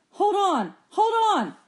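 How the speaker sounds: high, urgent shout; shouting back. A narrator's reading. Boy to girl in the pitching boat, shouting back. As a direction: holler a warning, pitched well up. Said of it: "he shouted back".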